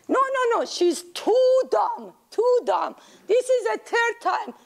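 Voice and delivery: put-on high, teasing child voice; mocking child. Great-grandchild mocking great-grandma as too dumb, high child voice. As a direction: tease like a cheeky kid.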